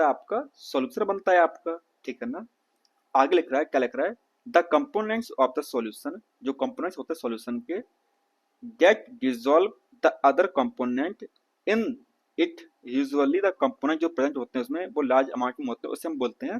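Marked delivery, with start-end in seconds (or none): 4.5-12.6 slow, careful textbook read-aloud. Shown as a demonstration. Teacher reads the textbook to his students, slow read-aloud. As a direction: spell out each word slowly for the class.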